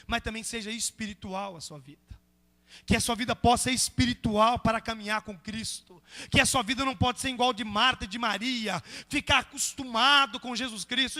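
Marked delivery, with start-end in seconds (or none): 2.8-11.2 firm, raised pulpit exhortation; earnest, driving sermon voice; forceful preaching. Real, not acted. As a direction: press the lesson on the congregation.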